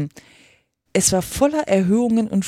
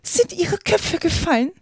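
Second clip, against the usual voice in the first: high, drawn-out queen's shout; crying out; 10 semitones higher than usual. A narrator's reading. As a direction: cry the question out high and slow. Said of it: "schrie die Königin sie an". (hoher, gedehnter Schrei der Königin)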